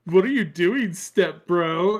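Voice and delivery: put-on high, loud coy girl voice; mock coy stepsister; imitating the girl.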